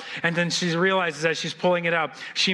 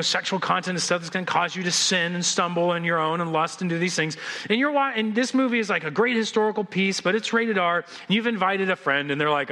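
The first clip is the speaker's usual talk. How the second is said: ordinary talk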